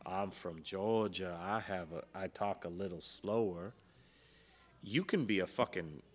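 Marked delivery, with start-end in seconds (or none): 0.1-3.7 put-on Southern accent. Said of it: "if you have a Southern accent".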